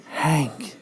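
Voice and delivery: villainess voice. Acted. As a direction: purr it like a scheming villain lady. Narrator voices Madam Hydra.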